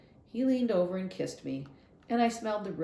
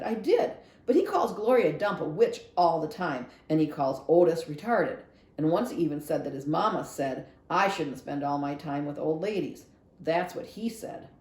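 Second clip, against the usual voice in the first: louder, eager self-defence; defiant defence; 4 dB louder than usual. Acted. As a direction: argue your side hard. Opal defending herself hotly.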